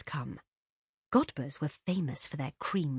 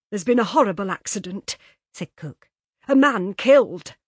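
louder, slowing on the grim news; cook, shocked; 4 semitones higher, 11 dB louder than usual. A narrator's reading. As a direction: break it heavily. Cook breaking bad news.

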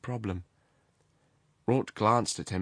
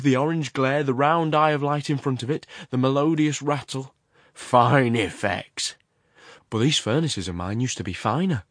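loud, higher, eager commentary; Horrocks; 4 semitones higher, 5 dB louder than usual. Acted. The works owner shows off train and furnaces, eagerly. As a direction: relish each sight of the coming train.

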